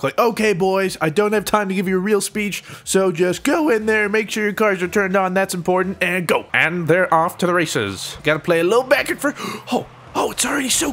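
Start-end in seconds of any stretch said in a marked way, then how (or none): 0.2-6.5 pep-talk coach voice, a bit higher; rally the team before the match; locker room coach. Pretend. Gamer playing coach giving a rushed locker room pep talk. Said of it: "like, locker room talk".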